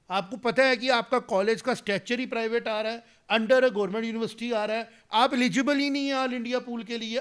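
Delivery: indignant politician challenging critics, heated and loud; heated challenge. Real, not acted. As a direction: raise your voice and call them out.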